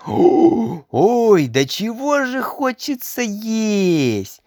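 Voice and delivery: lightly voiced hungry boy; hungry little boy. A narrator's reading.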